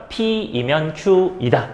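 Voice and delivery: very slow, spaced-out reading; "P이면", then "Q이다", drawn out with pauses; measured reading demonstration. Shown as a demonstration. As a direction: spell out "P이면 Q이다" piece by piece, very slowly. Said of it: "이렇게 읽어요".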